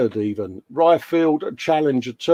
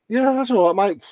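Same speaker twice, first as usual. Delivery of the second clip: imitating his own reply; 9 semitones higher than usual. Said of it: "I was like".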